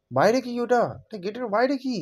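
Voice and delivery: put-on high, alarmed girl's voice; frightened girl. Girl spotting the monster at the gate, high and alarmed. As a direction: ask it with rising panic.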